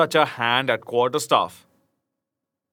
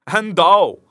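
louder, higher laughing retort; mild hearty laugh in the voice; laughing reply; 5 semitones higher, 7 dB louder than usual. A narrator's reading. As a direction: toss it back cheerfully. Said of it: "quoth the stranger laughing".

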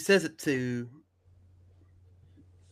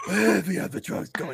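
higher put-on scary voice; Batman; 4 semitones higher than usual. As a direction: try a menacing hero voice. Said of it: "now that's scary".

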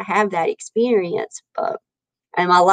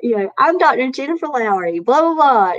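podcast intro; 3 semitones higher than usual. Retold or imitated. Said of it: "this little thing that I would say".

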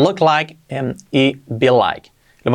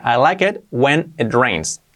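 slow model sentence. Shown as a demonstration. Teacher builds up example sentence slowly.

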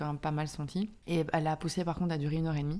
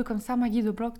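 put-on raised-pitch Flemish accent in French; 6 semitones higher, 5 dB louder than usual. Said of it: "elle avait un fort accent flamand". (accent flamand imité)

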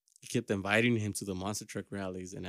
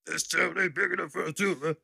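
tough guy voice; 6 semitones higher than usual. Pretend. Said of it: "keep doing that voice".

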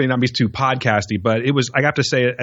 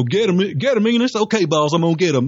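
higher mock Southern hick from old movies; 4 semitones higher than usual. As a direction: parody an old movie hillbilly. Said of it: "old movies where it's like".

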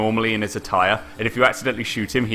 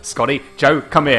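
higher, mildly projected call; mock calling-out voice; calling the dog; 4 semitones higher than usual. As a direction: imitate someone calling a dog in. Retold man calling his dog.

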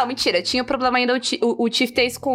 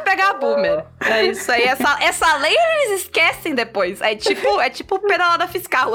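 clipping distorted mic; 5 semitones higher than usual. Real, not acted. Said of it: "me exaltei, o meu áudio tá estouradaço".

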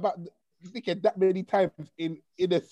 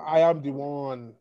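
put-on West African accent; 3 semitones lower than usual. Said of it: "did the African accent".

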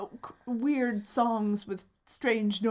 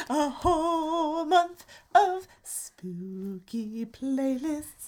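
excited; 6 semitones higher, much slower than usual. Retold or imitated. Excited self-quote.

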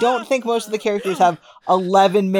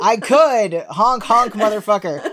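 clown voice; 4 semitones higher, 5 dB louder, slower than usual. Pretend. Playing a clown.

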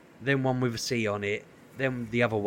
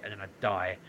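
ordinary talk

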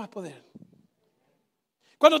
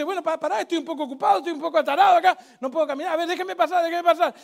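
louder, laughing through the words, playfully busy; laughing Jesus; 7 dB louder, faster than usual. Acted. Jesus telling the father he's busy in the crowd, laughing. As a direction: brush him off with a laugh.

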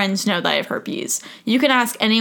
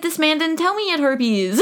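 shocked disbelief; 7 semitones higher than usual. Retold or imitated. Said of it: "and I was like".

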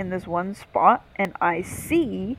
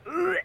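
higher, softer groan of disgust; disgusted ugh; 11 semitones higher, 4 dB quieter than usual. Real, not acted. Recalling bugs and maggots on the body, disgusted groan. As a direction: let out a revolted ugh.

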